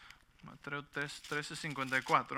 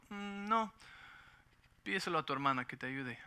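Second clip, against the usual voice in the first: put-on parent to kids; 5 dB quieter than usual. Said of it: "les digo".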